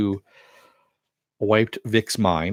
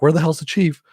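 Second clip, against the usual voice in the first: higher, louder mock demand; impatient retold demand; 8 semitones higher, 5 dB louder than usual. Teammate demanding to know where the chief is, mock impatience. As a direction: act out an impatient outburst.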